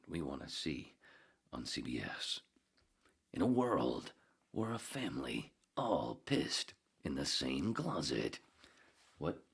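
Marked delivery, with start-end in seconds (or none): 3.3-8.4 movie trailer voice. Pretend.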